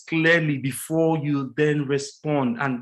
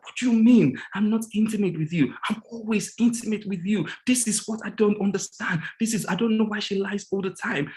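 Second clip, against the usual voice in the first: mock the husband's hurt, higher-pitched protest; retold angry outburst; 5 semitones higher than usual. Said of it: "He was angry".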